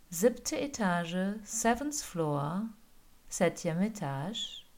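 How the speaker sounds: slow robotic floor announcement; Alexa voice. Retold or imitated. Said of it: "das ist so ähnlich wie zu Hause mit Alexa".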